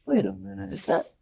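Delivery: high, laughing "is that Jesus?"; amazed laughing disbelief. Retold or imitated. Peter spots Jesus on the water, laughing in disbelief. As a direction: gasp and laugh in wonder at the sight. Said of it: "he's like".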